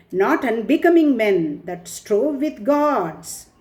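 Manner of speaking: declaimed verse, stretched phrase endings; poem recitation. Acted. Teacher reciting Ulysses on old age, in measured declamation. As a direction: recite with measured, solemn weight.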